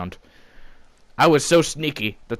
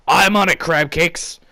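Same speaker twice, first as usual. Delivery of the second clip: eager heroic reply; 6 semitones higher, 5 dB louder, slower than usual. Acted. Hero answer, high loud.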